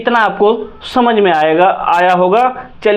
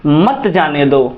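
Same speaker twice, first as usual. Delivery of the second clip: slow, lower "मत जाने दो" as one phrase; after a pause; 5 semitones lower, slower than usual. Shown as a demonstration. Teacher resumes after the comma, slow lower "मत जाने दो". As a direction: come in on "मत जाने दो" slowly after a silence. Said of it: "थोड़ा सा silent रहेंगे".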